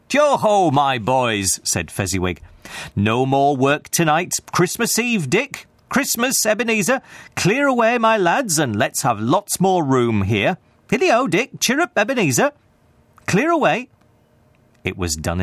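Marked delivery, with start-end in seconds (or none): 0.1-1.6 jovial call. A narrator's reading. Old Fezziwig hailing his boys, jovial and loud. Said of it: "in a jovial voice". 3.0-13.9 high, hearty calls to his apprentices; jovial old master, merry. A narrator's reading. Fezziwig ordering the room cleared, jovial and high.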